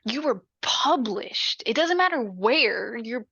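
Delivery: indignant, insistent encouragement, lightly acted; emphatic pep talk. Mom bucking up her published daughter, emphatic pep talk. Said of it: "her mom gives her, like, this pep talk".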